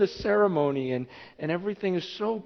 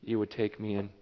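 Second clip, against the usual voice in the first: awed whisper-prayer; 8 semitones lower, 10 dB quieter than usual. Pretend. Worshipper tells God, softly and in awe. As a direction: breathe it out in quiet awe. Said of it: "you're just in awe going".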